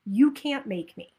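a light hint of a stubborn child's refusal; defiant toddler. Coach repeating the inner toddler's refusal, mildly defiant. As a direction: pout it out lightly. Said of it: "inner two-year-old".

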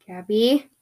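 tentative call, rising at the end; questioning call. Acted. Calling for a friend who wasn't there, questioning call. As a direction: call out as a question, at normal volume. Calls for her vanished friend.

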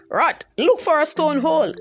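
shouted. A narrator's reading. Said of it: "Anansi shouted".

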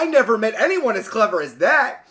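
hammed-up wonder, punching the words; exclaimed. A narrator's reading. Sultan marvelling at the magician's cleverness, exclaimed. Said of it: "cried he".

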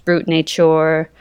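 slow French-accented "Brut Nature". Shown as a demonstration. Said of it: "that's my French accent".

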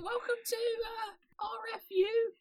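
very high squeaky ferret voice. Pretend. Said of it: "speak in the ferret voice".

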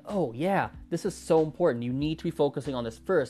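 mock overeager advice. Mocking learners who overstate pronunciation, lightly exaggerated. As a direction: imitate a zealous pronunciation guru pushing hard. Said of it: "over-exaggerate, and they will say".

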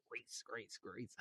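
voiceless whisper repeating Grace; whispered name. Retold or imitated. Recalling a name repeating in his vision, whispered. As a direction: breathe the name like an echo in a dream.

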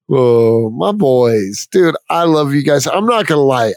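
a little tipsy and affectionate. Real, not acted. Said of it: "I'm a little tipsy".

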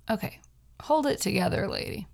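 steadying herself through real sadness; a sigh, then a hushed pep talk to herself; holding back tears. Real, not acted. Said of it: "I'm getting so fucking sad".

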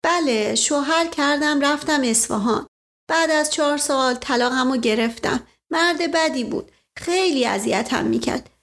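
put-on bashful young girl. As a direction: play a shy young maid reminding him. Fati tells her marriage.

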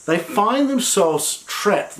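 "find" drawn out and slow; "They find themselves trapped" with "find" stretched; stress on find. Shown as a demonstration. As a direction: lean on the word "find", slowly. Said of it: "They find themselves a place".

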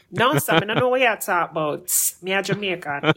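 lively Jamaican Patois retort; punchy Jamaican Patois comeback. Acted. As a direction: brush them off in quick Jamaican Patois. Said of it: "Basically, like".

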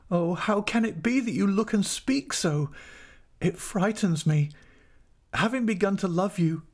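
high, imploring wife; heartfelt high-pitched entreaty; anguished pleading. A narrator's reading. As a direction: implore them in a high, distressed voice. Wife begs husband to love her.

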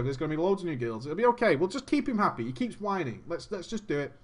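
acted-out half-hearted persuasion; reluctant agreeing. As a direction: talk yourselves into it quietly. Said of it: "They're like".

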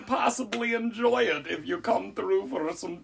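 mock witch offering tea; high sweet witch invitation. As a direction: lure travelers in as a sweet old witch. S0 as Baba Yaga inviting travelers.

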